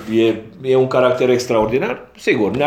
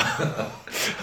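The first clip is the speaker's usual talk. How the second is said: chuckle; 5 semitones higher, 8 dB quieter than usual. Real, not acted. Chuckles after his own remark.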